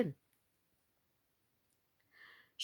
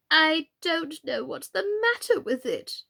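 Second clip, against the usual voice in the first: melancholy; 8 semitones higher than usual. A narrator's reading. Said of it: "in a melancholy voice".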